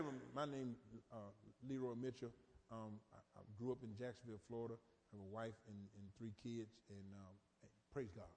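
low, soft, halting self-introduction; shy man mumbling his name and hometown; mild low mumble. Retold or imitated. First guy's short introduction.

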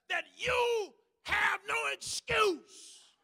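loud, high, driving preacher's cry; fervent preaching. Real, not acted. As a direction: preach it with full fire. Preaching at full force.

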